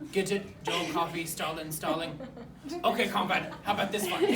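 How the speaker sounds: eager mock-Russian joke-teller; put-on Russian patter; Russian accent. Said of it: "tell it in a Russian accent".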